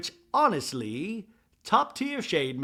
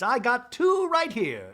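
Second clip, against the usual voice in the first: mock sassy Bronwyn; 8 semitones higher, 5 dB louder, slower than usual. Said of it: "And Bronwyn's like".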